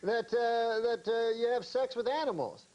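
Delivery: high, indignant protest; protest, wide-eyed and wronged. Retold or imitated. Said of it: "Uncle Hector's, like, indignant".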